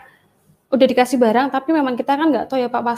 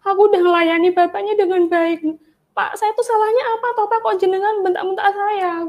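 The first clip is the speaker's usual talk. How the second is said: much higher, pleading cry to Jesus; retold tearful prayer, voice pitched up; tearful plea to God; 8 semitones higher than usual. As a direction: relive the hurt, calling out in tears. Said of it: "saya nyebut Tuhan Yesus".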